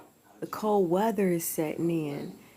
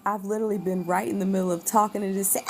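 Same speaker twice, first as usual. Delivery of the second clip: whispering; much faster than usual. Real, not acted. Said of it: "went back to my regular voice".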